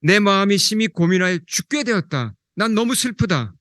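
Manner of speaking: a grieving Jesus, voice pushed up; anguished lament. Acted. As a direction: cry out the sorrow, pitch lifted. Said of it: "스스로 말씀하셨습니다".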